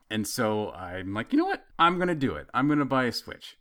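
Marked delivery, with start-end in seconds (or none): 1.3-3.6 higher, building to a triumphant resolve; talking himself into it, pitch up with glee; excited decision. Retold or imitated. Deciding to buy the game console, excited resolve.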